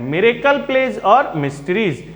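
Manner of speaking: measured teacher's delivery, word by word; unhurried pauses. Real, not acted. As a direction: read it out calmly with small pauses. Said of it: "आवाज़ में ठहराव देख रहे हैं ना".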